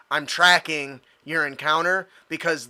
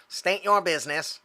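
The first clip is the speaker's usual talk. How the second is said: cool robot voice; 3 semitones higher than usual. Acted. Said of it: "No, that's not d-, badass enough".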